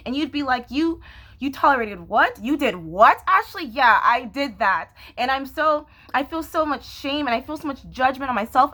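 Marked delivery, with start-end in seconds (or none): 0.7-3.6 imitating scandalized listeners, pitch leaping up; mock incredulous questioning, rising sharply at the end; shocked disbelief. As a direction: question it as if appalled. Voicing viewers shocked by her stories.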